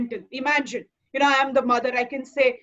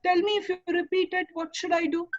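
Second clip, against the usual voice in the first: firm but gentle. Shown as a demonstration. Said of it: "You are not harsh".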